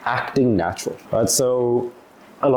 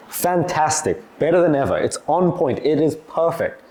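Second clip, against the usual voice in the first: best answer; 4 semitones higher than usual. Retold or imitated. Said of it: "the best answer I could get".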